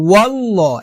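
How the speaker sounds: "ওয়াল্লাহ" as wallaw, with a dark rounded vowel; heavy rounded L. Shown as a demonstration. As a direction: round the second syllable of "ওয়াল্লাহ" to "law". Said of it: "হবে".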